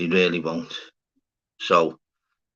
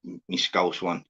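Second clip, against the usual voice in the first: drawn-out Scouse; much slower than usual. Shown as a demonstration. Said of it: "But me, other me".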